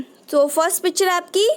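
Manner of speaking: normal talking voice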